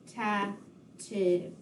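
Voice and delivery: "Ta", "tiv" as two separate beats; syllable by syllable. Shown as a demonstration. Teacher finishing the syllable count, "Ta", "tiv" spaced apart. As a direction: finish the split word softly, "Ta", pause, "tiv". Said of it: "split the word representative into syllables".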